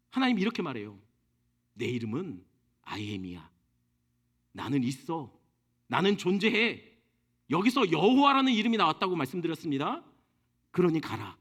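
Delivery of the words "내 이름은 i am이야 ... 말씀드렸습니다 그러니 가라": God's voice. Acted. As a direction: reveal the divine name, deep and hushed. God revealing his name.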